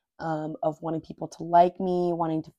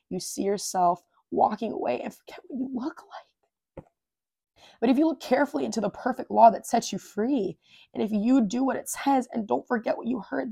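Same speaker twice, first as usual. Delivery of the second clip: emotional reading; 3 semitones higher than usual. Real, not acted. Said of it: "getting emotional right now".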